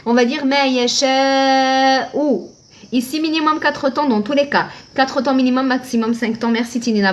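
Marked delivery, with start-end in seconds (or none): 0.1-2.5 "ma yasha ou" slowed and joined; joined recitation; linked reading. Shown as a demonstration. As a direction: chant "ma yasha ou" without stopping. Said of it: "Mais en cas d'enchaînement".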